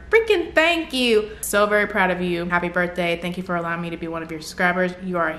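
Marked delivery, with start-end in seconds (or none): 0.1-1.3 higher, slow, freaking stressed; gushing thanks. Real, not acted. YouTuber touched by a fan's letter, high slow gush. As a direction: gush after a kind letter.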